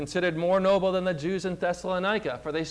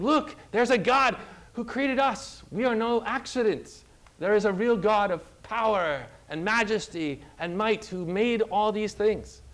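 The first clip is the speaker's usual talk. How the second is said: higher-pitched, emphatic proclamation; preaching; 4 semitones higher than usual. Acted. Stars preaching to people about their creator, emphatic proclamation. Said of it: "They are other preachers saying".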